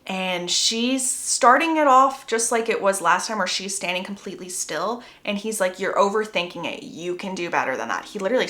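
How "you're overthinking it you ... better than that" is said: lower, cool retold voice; lightly voiced low-pitched Jacob; coaching remark. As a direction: say it low and matter-of-fact. Acts Jacob coaching the kiss.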